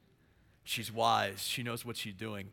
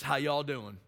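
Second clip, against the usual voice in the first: light imitation of a Southern accent; 3 dB louder, slower than usual. Shown as a demonstration. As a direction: greet with a hint of Southern US accent. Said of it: "We know they're from the South".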